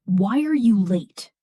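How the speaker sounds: blunt falling question, level and firm; direct. Shown as a demonstration. Teacher demonstrating a direct, blunt question. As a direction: ask straight out, no softening. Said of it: "sounds direct".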